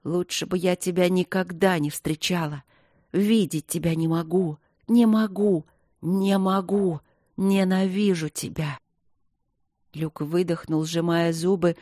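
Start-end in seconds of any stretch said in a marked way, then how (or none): 0.0-8.8 hysterical. Acted. Hysterical sobbing tirade.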